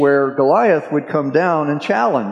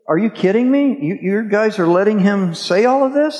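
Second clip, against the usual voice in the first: higher, disbelieving protest at the cowards; incredulous outrage; 6 semitones higher than usual. Retold or imitated. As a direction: ask it like you can't believe your ears. David outraged at army's fear.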